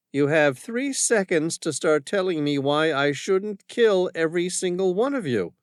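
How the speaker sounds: armed woman threatening the commander; menacing woman. Acted. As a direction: count him down coolly. Woman gives an ultimatum.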